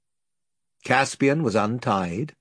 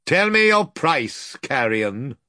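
stern lord; 3 semitones higher, slower than usual. Acted. Lord commanding Pug, stern and scornful. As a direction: order him with cold contempt. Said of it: "said the lord sternly".

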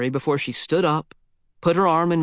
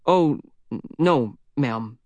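stuttered; slower than usual. Acted. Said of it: "I stuttered".

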